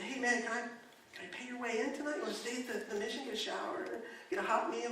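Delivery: retold tender, careful invitation; gentle offer. Gentle offer to a weeping man.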